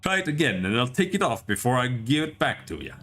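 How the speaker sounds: a light, rough Scottish brogue; gruff Scottish taunt, only lightly put on; mock-tough Scottish voice; Scottish accent. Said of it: "I can't do this fucking Scottish accent".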